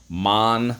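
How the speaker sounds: "Mon-o-cul" in three separated beats, long pauses between; syllable by syllable. Shown as a demonstration. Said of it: "First syllable, mon. Second syllable, o".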